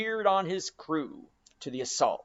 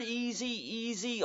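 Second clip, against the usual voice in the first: soothing hush; 6 semitones higher, 7 dB quieter than usual. A narrator's reading. Mate calming rowers mid-chase.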